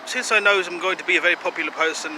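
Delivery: mock German accent, earnest self-promotion; wobbly, hammed-up German accent. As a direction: put on a slightly Eastern European German accent. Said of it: "I'm having a little trouble with this accent".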